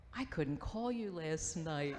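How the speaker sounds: slow, lightly put-on apology; prankster's fake apology. Prankster friend to the guy on the blanket, mildly mock-apologetic. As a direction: draw out the pretend excuse. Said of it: "she was the instigator".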